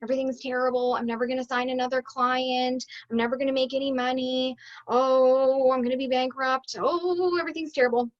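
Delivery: wallow in self-pity, half-joking; droning, hammed-up moaning; mock despair. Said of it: "we're thinking things like".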